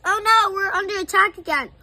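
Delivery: loud, panicked cry of attack; yelled alarm. A narrator's reading. Professor shouting in panic. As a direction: professor yells in alarm at flying marshmallows. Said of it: "put up his hands and yells".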